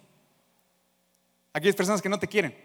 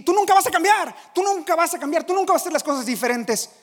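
loud scornful taunt, higher; mocking shout; 10 semitones higher, 8 dB louder than usual. A doubter shouting scorn at the convert. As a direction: jeer it like someone who knows you too well.

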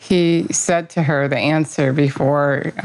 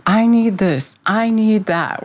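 mock wanting; 7 semitones higher than usual. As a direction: play the greedy grasping self, pitched up. Mocking people's craving for things.

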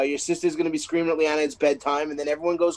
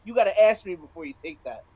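mock child scream; 4 semitones higher than usual. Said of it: "Juliana is screaming at me".

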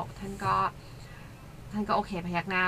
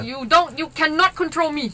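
playful teasing; 7 semitones higher, 4 dB louder, much slower than usual. Retold or imitated. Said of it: "แต่ว่าก็แซวๆ น่ารัก".

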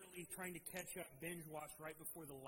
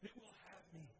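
desperate plea; 6 semitones higher, 4 dB quieter than usual. Retold or imitated. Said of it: "he says desperately".

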